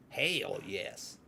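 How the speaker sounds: soft, low Southern drawl; Southern accent. Shown as a demonstration. Demonstrating how Southerners talk, in a low Southern accent. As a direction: show off a Southern accent, quietly. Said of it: "I can do a Southern accent".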